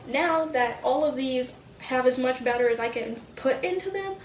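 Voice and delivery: talking through hiccups; speech broken by small hiccups. Real, not acted. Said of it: "I have the hiccups".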